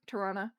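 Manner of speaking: Toronto as Toronno, with the second t dropped; local Toronto pronunciation. Shown as a demonstration. Showing chat how locals say the city's name. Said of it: "If you're from up here".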